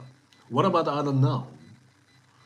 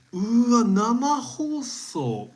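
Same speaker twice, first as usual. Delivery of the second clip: excited exclaim; 10 semitones higher, 5 dB louder, much slower than usual. Real, not acted. Excited drawn-out word.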